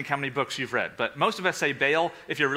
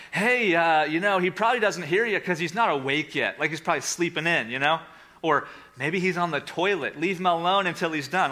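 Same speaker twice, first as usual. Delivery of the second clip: sarcastic. Acted. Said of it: "Elijah is sarcastic".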